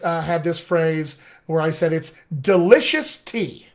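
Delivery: delicious tea, stressing the LI and TEA. Shown as a demonstration. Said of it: "Those are my two stress syllables".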